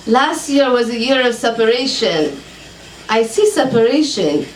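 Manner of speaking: put-on lightly Hebrew-accented psychic, businesslike. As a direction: ask calmly, Hebrew accent. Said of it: "I've never done a Hebrew accent".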